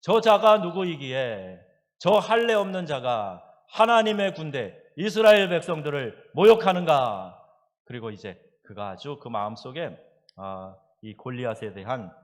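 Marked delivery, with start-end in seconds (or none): 0.0-7.4 defiant challenge. Retold or imitated. Preacher quoting David's challenge against Goliath, loud defiant proclamation.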